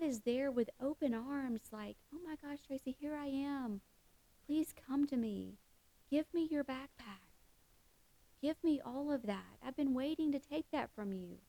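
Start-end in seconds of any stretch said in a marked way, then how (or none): 2.1-11.4 higher, gentle welcoming voice; tender loving God. Retold or imitated. God welcoming the weary speaker home, tender and higher. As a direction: speak as a loving father opening his arms.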